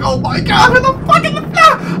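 high-pitched panicked exclamation; retold panic. Gamer recalls the fly gone missing, retold panic. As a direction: squeal it as if reenacting a frantic search. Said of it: "freaking panicking, looking all over the place".

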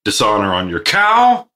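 lightly hammed-up curse of dishonor; mock shaming. Host mock-shaming his co-host over skipped weeks, hammed-up scolding. Quoting a mock disgrace line.

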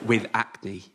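said through a chuckle; laughing. Real, not acted. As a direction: finish the line still laughing. Narrator amused by own description.

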